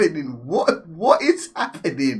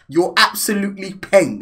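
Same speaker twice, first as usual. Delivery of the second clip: posh road man. Retold or imitated. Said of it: "sounding posh and from the road".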